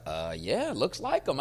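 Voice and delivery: imitating a cowed, hesitant yes; intimidated agreement. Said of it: "'cause I'm so aggressive, they be like".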